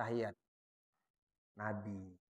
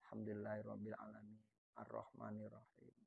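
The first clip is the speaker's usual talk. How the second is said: low, quiet murmured recitation; soft recitation demo; 6 semitones lower, 21 dB quieter than usual. Shown as a demonstration. Teacher reciting Fatihah softly for students. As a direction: recite softly so only you hear it. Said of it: "Kalau nggak kedengeran".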